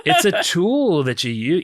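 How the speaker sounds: slow, laughing beat poet imitation; mock beat poet. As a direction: tease with a hammy poet voice. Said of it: "talking like a beat poet".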